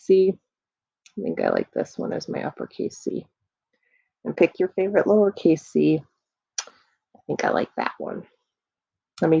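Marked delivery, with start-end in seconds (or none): 1.2-3.3 whispering. Real, not acted. Quiet aside while choosing. 7.2-8.2 whispering. Real, not acted. Quiet aside.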